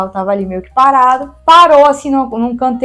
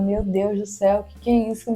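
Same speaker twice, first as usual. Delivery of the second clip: soft, low inner voice; soft, stunned inner monologue; quiet thought; 3 semitones lower, 8 dB quieter than usual. Retold or imitated. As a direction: think it quietly to yourself. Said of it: "só pensando".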